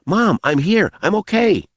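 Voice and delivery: put-on high girl's call. A narrator's reading. Girl to her mother across darkness, calling out. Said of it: "calling out".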